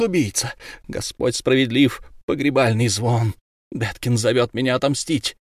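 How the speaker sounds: mother taunting the killer while biting him; vengeful muttering. Acted. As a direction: taunt him with each bite. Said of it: "она приговаривала".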